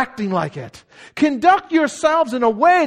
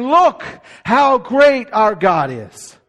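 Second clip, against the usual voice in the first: proclaiming; 4 dB louder, slower than usual. Retold or imitated.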